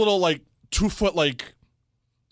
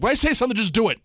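imitating a cross boss, higher pitched; retold mild yell; 6 semitones higher, faster than usual. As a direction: lay down the rule like an annoyed boss, half-raised voice. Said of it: "He kinda yelled".

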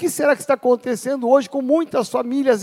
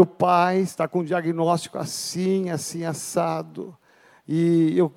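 dying father; 5 semitones lower than usual. Acted. Dying father speaks to his son.

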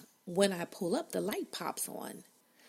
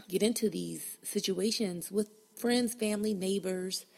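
normal talking voice

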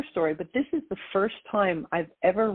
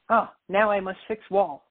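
put-on Japanese accent. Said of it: "in his very heavily Japanese accent".

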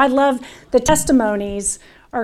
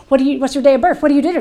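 nervous nursing student; 4 dB louder, much faster than usual. Retold or imitated. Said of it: "peppering them with questions, so nervous".

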